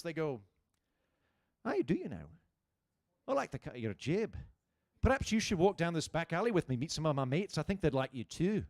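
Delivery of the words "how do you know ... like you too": friendly words in a menacing Scottish brogue; ominous Scottish accent. Acted. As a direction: sound like a Scot about to murder you. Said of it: "They always sound like they're gonna murder you".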